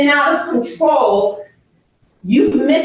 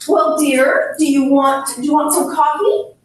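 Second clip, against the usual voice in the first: sweet offer; 2 semitones higher than usual. Retold or imitated. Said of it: "Don't say".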